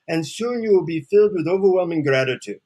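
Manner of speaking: put-on lightly lilting Indian-accented guru. Guru promising the seeker gratitude, Indian accent. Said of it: "in his deep Indian accent".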